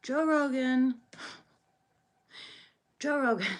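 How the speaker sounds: loud, high Trump-style shout; Donald Trump impression. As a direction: bellow the name like Trump. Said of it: "voice trying to sound like Donald Trump".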